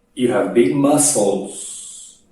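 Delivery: slow, drawn-out delivery of the words big muscles.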